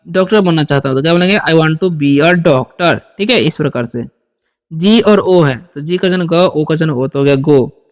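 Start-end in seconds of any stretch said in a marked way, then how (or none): 1.4-3.0 each word stretched for the class; very slow teacher demo; very slow model sentence. Shown as a demonstration. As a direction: read it out slowly to students. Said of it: "teacher models an English sentence".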